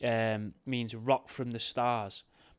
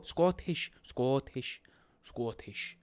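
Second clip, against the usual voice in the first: bad Scottish accent; much slower than usual. Host practising the word Scottish, terrible Scottish accent. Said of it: "Terrible at accents".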